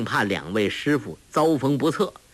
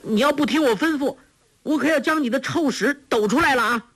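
put-on girl's teasing threat; 13 semitones higher, faster than usual. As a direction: threaten him with a secret, playfully. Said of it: "黄蓉叫道".

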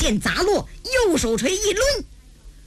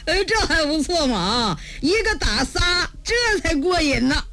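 pleased, slightly raised voice; gleeful; 3 semitones higher than usual. Acted. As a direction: relish the coming fight. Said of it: "小云一看乐了". (乐呵呵，跃跃欲试)

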